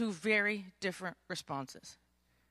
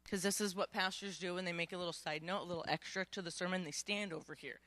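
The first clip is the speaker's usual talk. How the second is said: side note aside; 5 semitones lower, 11 dB quieter, faster than usual. Acted. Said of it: "I'm just teasing".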